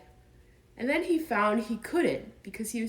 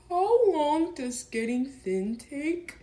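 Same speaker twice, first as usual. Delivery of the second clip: anxious; 8 semitones higher, slower than usual. Acted. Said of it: "asked Pooh anxiously".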